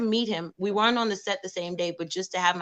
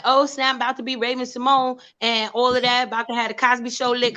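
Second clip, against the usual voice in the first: high bright burst of excitement; excited; 5 semitones higher, 4 dB louder than usual. Retold or imitated. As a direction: squeal it like you just got the part. Excited self quote landing audition.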